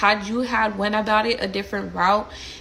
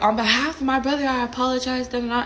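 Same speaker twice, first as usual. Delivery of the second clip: higher-pitched mock-argument apology; mildly heated, raised-pitch retelling; yelled apology; 5 semitones higher than usual. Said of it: "we're yelling and apologizing at each other".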